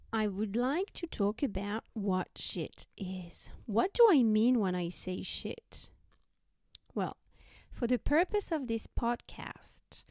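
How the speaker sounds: whispering. Real, not acted. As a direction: whisper it right into the ear. Letting me whisper into your ears.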